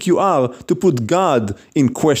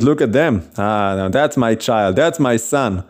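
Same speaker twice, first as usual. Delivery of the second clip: lightly voiced proud father; proud bragging; 6 semitones lower than usual. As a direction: show off your child, pitched a little low. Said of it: "God brags about his children".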